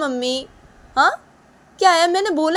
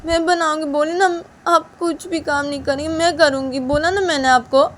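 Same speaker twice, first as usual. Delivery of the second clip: much higher, louder angry scolding; daughter-in-law furiously scolding mother-in-law; angry Uma; 11 semitones higher, 10 dB louder than usual. Acted. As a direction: shout at her for not listening.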